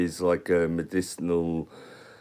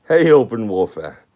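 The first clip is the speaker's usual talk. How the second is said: a louder, oddly pitched hey; weird greeting voice; 3 semitones higher, 8 dB louder than usual. Real, not acted. Streamer greeting a viewer with his weird hey voice. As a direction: greet him with that odd sing-song hey. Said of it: "my voice goes weird when I say hey".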